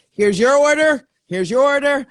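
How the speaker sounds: playful put-on delivery voice; delivery driver. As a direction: hand over the bag like a cheery Uber Eats driver. Playing delivery driver handing food.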